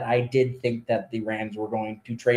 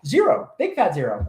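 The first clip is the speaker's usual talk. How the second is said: emphatic; 4 semitones higher than usual. Real, not acted. Emphatic answer on wins.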